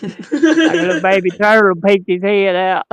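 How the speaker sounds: words broken by laughter; laughing while talking. Real, not acted. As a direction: laugh through the punchline. Laughing at his own joke.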